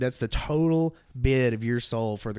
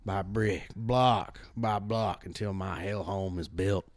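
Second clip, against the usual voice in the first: ominous storyteller. Pretend. Dark swamp devil monologue.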